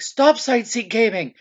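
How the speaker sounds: high, drawn-out exasperated outburst; exasperated mock yell. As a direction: imitate a fed-up gamer, pitched high and slowed. Retold exasperated gamer friend snapping.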